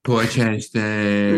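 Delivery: slow nasal Jewish New York voice; nasal Jewish accent. Acted. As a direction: drag out Scottsdale through the nose. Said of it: "that nasal Jewish accent".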